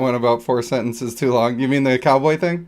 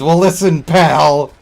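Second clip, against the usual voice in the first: a hint of a tough-guy warning, louder; mock tough guy; 6 dB louder, slower than usual. Streamer hamming a tough guy for chat, louder warning. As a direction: lean in with a mild threat. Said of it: "You want it to be a little more urban?".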